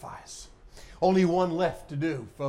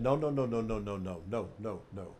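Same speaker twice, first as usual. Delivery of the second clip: low, soft string of no's; quiet refusal; 5 semitones lower, 7 dB quieter than usual. Acted. Preacher as Elijah stopping the prophets lighting the fire, quiet refusal. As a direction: hush them down, trailing ever softer. Elijah halting the burning, quoted.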